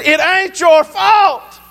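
high, slow, drawn-out retold insistence; emphatic insistence. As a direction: insist over his objection, stretching each word. Insists again after father objects.

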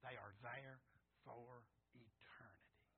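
slow, very soft near whisper; hushed solemnity. Real, not acted. Preacher on souls lost forever, slow hushed solemnity. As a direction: let it sink in slowly and softly. Solemn point about hell.

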